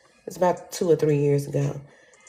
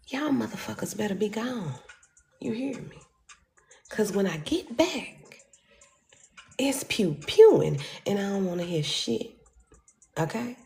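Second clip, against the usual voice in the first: hushed, menacing warning, much softer; 5 semitones higher, 6 dB quieter than usual. Retold or imitated. Warning the couple to leave, in a hushed menacing voice. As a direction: threaten them quietly so only they hear.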